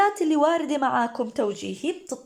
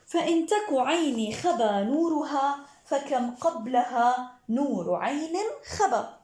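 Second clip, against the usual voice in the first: laughing recitation; 3 semitones higher, slower than usual. Real, not acted. Reads verse with a laugh.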